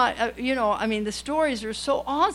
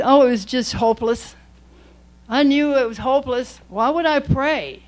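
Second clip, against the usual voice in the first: mock despair; 2 semitones higher, 6 dB louder than usual. Mocking hopeless excuse.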